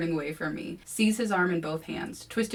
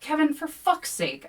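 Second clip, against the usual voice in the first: much higher exasperated cry; 10 semitones higher, 4 dB louder than usual. A narrator's reading. Narrator to Kevin, exasperated high cry. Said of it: "I cry".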